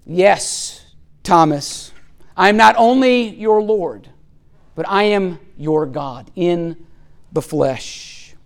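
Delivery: lightly voiced, solemn Jesus, in measured phrases; Jesus answering Thomas. Jesus accepting Thomas's worship as God, solemn and measured.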